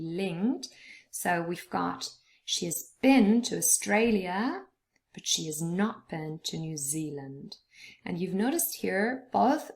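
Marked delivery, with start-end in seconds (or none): 2.4-4.6 "been" stressed, "Australia" stressed on its middle syllable. Shown as a demonstration. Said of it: "and been is stressed". 5.1-7.6 "not" stressed within a lower-pitched sentence. Shown as a demonstration. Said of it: "the not is stressed here".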